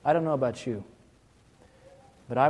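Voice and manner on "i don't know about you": ordinary talk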